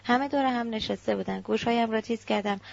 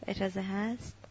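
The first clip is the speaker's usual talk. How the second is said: softer, gentle smiling request; 6 dB quieter than usual. A narrator's reading. Aunt at the doorway asks to come in, softly smiling. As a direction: ask softly with a smile. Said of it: "لبخندی زد و گفت".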